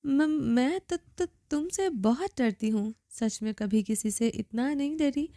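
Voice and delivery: put-on slow, trembling stutter of a frightened girl; terrified stammer. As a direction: stammer every other word in fear. Terrified girl stammers before captor.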